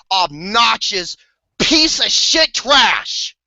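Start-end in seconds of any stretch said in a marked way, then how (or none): 1.6-3.3 angry emphasis. Real, not acted. Ranting about hated character.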